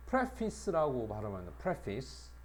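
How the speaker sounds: 프레피스를 또박또박 시범; 프레피스 발음을 분명히 들려주기. Shown as a demonstration. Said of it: "프레피스라고 발음을 해야 돼". (프레피스 발음 시범)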